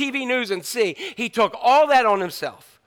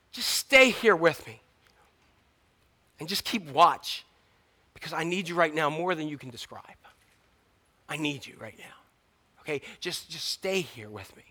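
fading to a soft, low plea; pleading quietly; 4 semitones lower, 7 dB quieter than usual. Acted. Jesus begging friends to stay, fading soft. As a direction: beg them softly to stay. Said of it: "He said".

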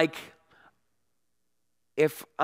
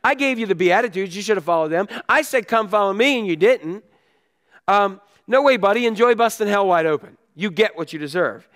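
scolding Jesus; 4 semitones higher, 4 dB louder than usual. Retold or imitated. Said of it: "Jesus said".

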